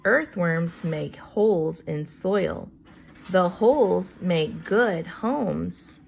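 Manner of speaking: put-on slow, clear read-aloud for kids; reading to children. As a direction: read each word out slowly for young listeners. Teacher reads book text slowly.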